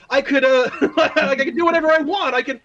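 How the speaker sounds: high, fast, giddy power-trip voice; the reckless newbie who thinks nothing can stop her; giddy new player. Retold or imitated. Excited newbie wizard bragging to the table, high and giddy. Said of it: "you're like".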